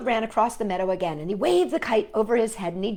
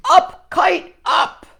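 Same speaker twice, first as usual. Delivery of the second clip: loud high call to the kite; shouting up kite; 8 semitones higher, 8 dB louder, slower than usual. Acted. Frog telling Toad to shout at the kite, loud high call. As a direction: yell it up at the sky. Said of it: "and shout".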